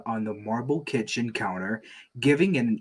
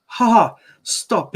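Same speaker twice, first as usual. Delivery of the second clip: squealing laugh; 10 semitones higher, 7 dB louder than usual. Acted. Bluey squeals with joy.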